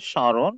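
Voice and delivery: স্মরণ with silent ম, nasal vowel; nasalised pronunciation. Shown as a demonstration. Teacher showing learners how স্মরণ is said, nasalised pronunciation. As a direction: say স্মরণ as "shɔ̃ron". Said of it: "স্মরণের উচ্চারণ হবে".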